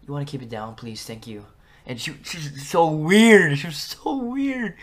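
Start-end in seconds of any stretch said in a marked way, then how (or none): 0.1-1.4 softer, oddly polite "keep it down, please"; imitating a quiet teacher. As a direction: say it softly, pointing at the kid up close. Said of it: "She's like".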